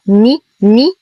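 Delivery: ني as a short, complete i after ن; full short ni. Shown as a demonstration. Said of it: "نتم كسرة النون دون تمطيط".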